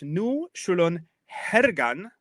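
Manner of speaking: put-on deliberate Old English, "Nu shulon hergan" with each word set apart; Old English pronunciation. Shown as a demonstration. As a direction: recite slowly in Old English. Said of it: "we have in the Old English".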